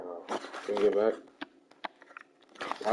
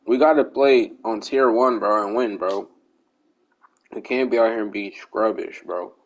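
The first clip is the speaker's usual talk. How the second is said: numb mouth; 4 dB louder than usual. Real, not acted. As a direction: talk like you can't feel your lips. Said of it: "Sorry, I'm talking funny. I can't name my mouth".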